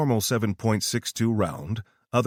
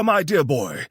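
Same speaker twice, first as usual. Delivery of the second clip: higher, louder stage-British aside; fake British; 7 semitones higher, 5 dB louder than usual. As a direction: patronise him like a hammy Brit. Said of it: "The British accent returned".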